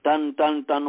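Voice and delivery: slow imitated thuds of carding cotton; slow rhythmic टन टन टन; cotton-beating sound. Shown as a demonstration. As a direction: tap out टन टन टन slowly like a cotton bow. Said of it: "जैसे रुई को हम धूनते हैं".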